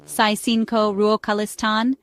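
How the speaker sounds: slow, careful "Saisinko ruokalistan" for learners; slow demonstration. Shown as a demonstration. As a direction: draw out "Saisinko ruokalistan" so learners can follow. Phrase repeated slowly for learners.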